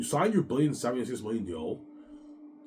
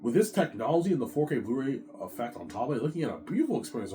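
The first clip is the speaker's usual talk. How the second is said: higher voice, rushing at the end; awed Peter; 4 semitones higher than usual. Retold or imitated. Peter raving about four K, higher and fast. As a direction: gush about the tech, pitched up. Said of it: "He's like".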